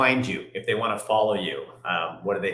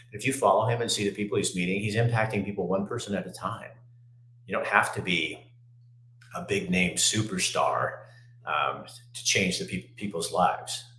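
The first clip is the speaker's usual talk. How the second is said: after crying; 3 semitones lower, 4 dB quieter than usual. Real, not acted. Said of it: "I'm getting a little teary".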